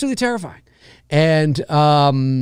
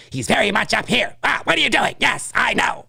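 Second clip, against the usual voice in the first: higher, lightly voiced actor chatting; Robert's own light voice; 6 semitones higher than usual. Showing how Robert sounds in interviews, higher light voice. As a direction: keep it up and airy like the actor himself. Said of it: "Robert speaking in interviews".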